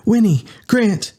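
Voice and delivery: high shout over the comm. Acted. Candy shouting to Winnie and Grant over comm, high call. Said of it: "Candy shouted through her comm".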